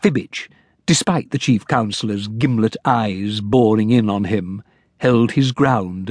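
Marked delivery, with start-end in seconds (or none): none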